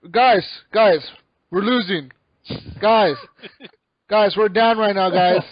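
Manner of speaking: loud, mock-exasperated pleading; Hook. Imitating buddy warning chatting teammates they're losing, mock pissed-off. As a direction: call out to teammates who aren't listening. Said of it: "Hook gets all pissed at us".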